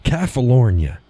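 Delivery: "California" said alone as "Calf-a-lornia"; odd pronunciation. Shown as a demonstration. Showing a favourite butchered word, "California" as "Calf-a-lornia". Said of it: "I like to say California".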